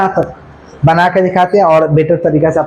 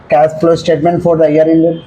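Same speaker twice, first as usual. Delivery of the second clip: each word drawn out for notes; slow dictation; much slower than usual. Shown as a demonstration. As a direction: dictate it slowly so they can write. Teacher dictating format to students. (धीरे-धीरे लिखवाते हुए)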